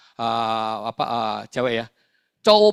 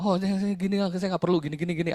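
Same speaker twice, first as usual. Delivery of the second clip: higher-pitched imitation of a brush-off; dismissive; 6 semitones higher than usual. Man turning down talk about his family, dismissive. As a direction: rattle off a mock refusal, pitched up.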